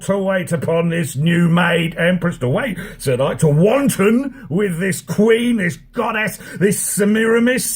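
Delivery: put-on Aaron exults in a north african accent. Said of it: "my North African accent".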